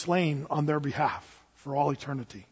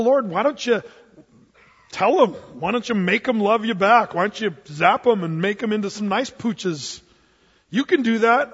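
pleading shout; 2 semitones higher, 4 dB louder than usual. Acted. Preacher pleads with the Lord.

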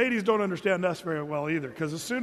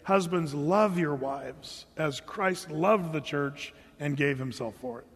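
scripture read slowly; 5 semitones lower, slower than usual. Real, not acted. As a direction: let each word of the verse land, slowly. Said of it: "But it does say".

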